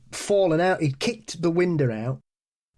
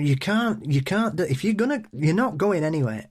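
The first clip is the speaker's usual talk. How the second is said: losing it; 4 semitones higher than usual. Retold or imitated. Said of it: "I just lost it".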